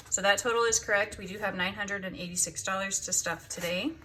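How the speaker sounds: slightly winded after counting; out of breath. Real, not acted. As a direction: talk a bit out of breath. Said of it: "Whew, I'm out of breath".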